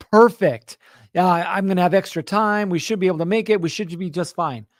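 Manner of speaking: bright and upbeat, then settling down; relieved excitement. Retold or imitated. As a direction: cheer about having time to spare. Relief after landing early.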